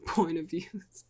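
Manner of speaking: quiet self-mocking whisper; whispered aside. Real, not acted. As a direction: mutter it to yourself, amused. Self-mocking aside about phrasing.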